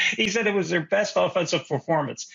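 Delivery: disbelieving, stress on "He"; incredulous. Real, not acted. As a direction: repeat it in mock disbelief. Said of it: "I can't even say this with a straight face".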